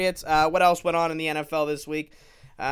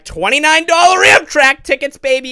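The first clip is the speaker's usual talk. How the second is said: excited; 9 semitones higher, 14 dB louder than usual. Real, not acted. Hyping cheap train tickets.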